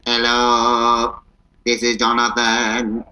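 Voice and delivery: slow, even robot voice. Pretend. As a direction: say it like a stiff robot. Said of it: "do I sound like a robot".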